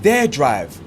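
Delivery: "Their" picked out with emphasis; quoted with the weight on "Their"; stress on Their. Retold or imitated. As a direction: lean on the word "Their" to point out the wording. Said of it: "if you listen to the verbiage".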